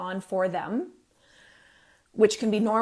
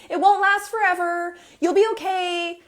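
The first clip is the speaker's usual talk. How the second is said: high, loud, sugary brush-off comfort; mock cheery reassurance; 8 semitones higher, 6 dB louder than usual. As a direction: chirp it like a hollow cream-puff reassurance. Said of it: "put a cream puff on the friggin' top".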